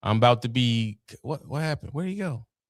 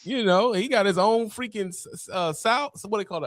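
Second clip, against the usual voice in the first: chipmunk voice; 8 semitones higher than usual. Real, not acted. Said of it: "why do you sound like a chipmunk".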